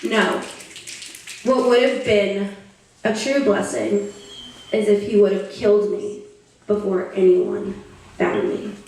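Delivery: solemn, deliberate poem ending; spoken-word poem. Acted. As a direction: let each phrase land, with long pauses. Slow bleak ending of poem.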